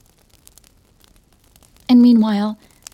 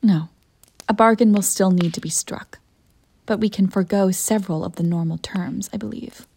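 sultry whispered bargaining; seductive whisper. Acted. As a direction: lean in and whisper the terms.

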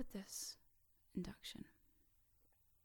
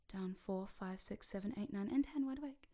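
tag. Real, not acted. Counting up to wake listener.

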